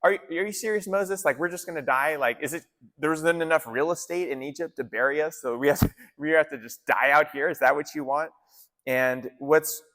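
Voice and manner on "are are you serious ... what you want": higher-pitched, incredulous complaint, lightly acted; mock terrified protest. Israelites complaining to Moses about dying out here, mildly panicked. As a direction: imitate panicked people protesting in disbelief. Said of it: "they are terrified, they're crying out, and they're like".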